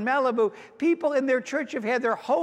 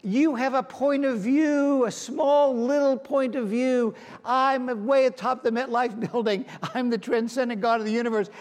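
God speaking; 4 semitones higher than usual. Retold or imitated. Preacher voicing God telling the congregation to trust his view. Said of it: "And God says".

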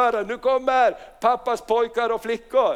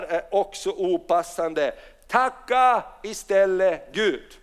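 measured, slow Bible reading; reading Paul's words slowly to the congregation; slow scripture reading; slower than usual. Acted. Pastor reads scripture to church, slow and measured.

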